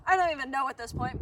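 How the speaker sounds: loud and quick, straining past the wind; shouting over wind. Real, not acted. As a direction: push the voice out against the breeze. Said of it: "Hopefully you can hear me over the wind".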